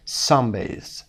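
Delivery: "sunbathe" stressed on SUN; SUN-bathe, weight up front; stress on first syllable. Shown as a demonstration. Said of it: "اونهایی که first syllable هستن".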